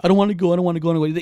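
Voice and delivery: lightly mocked whiny little kid; mock a small child's fussing; whiny big baby. Imitating his balking son at church, babyish whine. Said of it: "just being a big baby about it".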